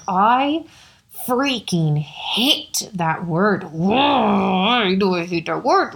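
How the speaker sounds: slow, drawn-out frustration; retelling her own exasperated rant. Retold or imitated. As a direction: stretch every word out in annoyance. Retelling her outburst to friend.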